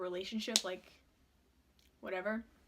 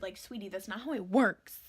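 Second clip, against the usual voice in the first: louder condescending sweetie; sassy; 7 dB louder than usual. Retold or imitated. Vowing revenge on her ex, loud condescending sass. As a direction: talk down to him, loud and sassy.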